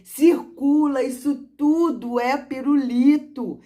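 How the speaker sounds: circle it with them, slowly; deliberate teacher voice to a child; slow teacher demo. Shown as a demonstration. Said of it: "Então olha bem".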